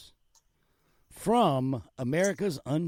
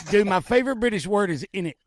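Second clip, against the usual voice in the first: excited; 3 semitones higher, 5 dB louder, much faster than usual. Real, not acted. Excited about favourite word.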